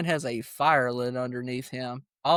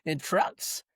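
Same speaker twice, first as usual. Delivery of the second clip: higher, drawn-out puzzled question; confused; 4 semitones higher, much slower than usual. Retold or imitated. Co-host replaying confusion over Joey in trucks, puzzled and slow. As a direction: stretch it out in mock bewilderment. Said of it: "I was confused. I was like".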